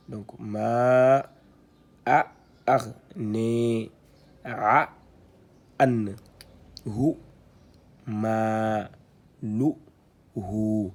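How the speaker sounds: syllabes arabes détachées et fortes; récite chaque syllabe en la tenant; lecture syllabée. Shown as a demonstration. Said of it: "Ça, c'est un petit waw qui sert d'outil d'allongement". (« ma, a, ar, ne, a, an, hu, ma, lu, hu » scandé, syllabe par syllabe)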